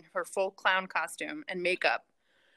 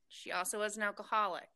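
whispered aside; 6 dB quieter than usual. Real, not acted. Confiding aside about neighbor.

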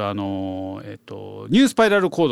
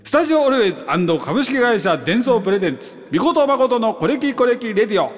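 higher-pitched announcer-style presentation; event title call; 6 semitones higher than usual. Pretend. Radio host unveiling the anniversary event's name, announcer-style title call. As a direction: proclaim the sponsors and show name. イベント名を読み上げるタイトルコール.

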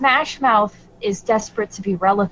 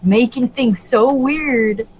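condescending voice; 5 semitones higher than usual. Retold or imitated. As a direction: talk down like a mansplainer. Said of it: "talk in a condescending voice and in the third person".

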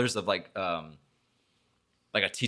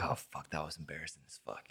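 much softer muttered aside; embarrassed inner thought; 4 semitones lower, 13 dB quieter than usual. Retold or imitated. Thinking to himself in the crowded hall, muttered softly. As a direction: mutter it to yourself, mortified.

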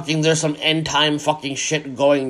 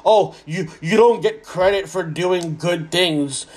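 mocking quote; slower than usual. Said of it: "'cause people always go".

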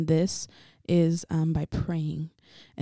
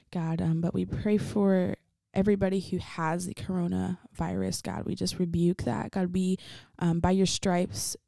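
praying. Acted. Leads closing prayer.

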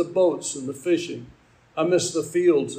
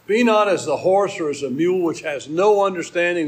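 "mule" pushed out louder and held, the word that stuck; stress on mule; 5 dB louder than usual. Shown as a demonstration. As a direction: lean hard on "mule", said louder. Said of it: "That's why I emphasize it".

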